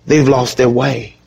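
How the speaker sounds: sad, gentle. Real, not acted. Preacher describing people who lost their way, sad and gentle. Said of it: "there's a sadness in my voice".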